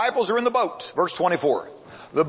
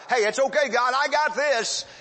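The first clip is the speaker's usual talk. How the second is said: high-pitched, cocky brush-off; breezy overconfidence; 5 semitones higher than usual. Acted. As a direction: wave off help in a higher voice. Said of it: "saying to God".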